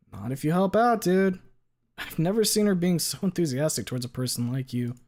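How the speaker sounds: pleading friendly jock voice; earnest bro voice. Acted. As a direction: lean in, earnest buddy. Leon voice, pleading.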